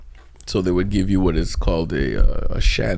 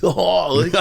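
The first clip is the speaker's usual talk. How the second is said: raised surfer-dude Northern Canadian voice; Northern Canadian surfer accent; 6 semitones higher than usual. Shown as a demonstration. Comedian continuing his impression, surfer-like Northern Canadian accent. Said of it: "they sound like surfers with no beach".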